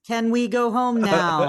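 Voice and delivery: slow, measured robot delivery. Retold or imitated. Co-host echoes Igus asking to leave, in a mild robot voice. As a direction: lightly imitate a robot, drawing the words out. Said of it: "In her, in her robot voice".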